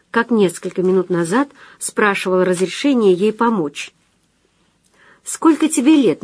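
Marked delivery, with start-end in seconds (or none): 5.2-6.2 high-pitched blurted question; impulsive question. A narrator's reading. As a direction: blurt it out, unable to hold back. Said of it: "не выдержала она".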